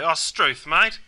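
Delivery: mock-annoyed outburst, rising on mate. Shown as a demonstration. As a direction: show your disapproval of a mate. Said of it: "you might get angry and annoyed".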